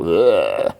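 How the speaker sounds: drawn-out ugh of distaste; exasperated groan. Real, not acted. Speaker fed up with a stuffy character, groaning ugh.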